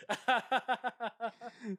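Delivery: forced, high laugh on cue; fake laugh. Shown as a demonstration. Coworker showing how to ease into it, fake laugh. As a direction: demonstrate a put-on polite laugh. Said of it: "that was a pretty terrible fake laugh".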